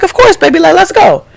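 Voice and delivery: high, friendly voice for the star; sweet celebrity. Retold or imitated. Retelling Toot agreeing to a photo, high friendly voice. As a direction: play her as gracious and bubbly. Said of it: "And she was like".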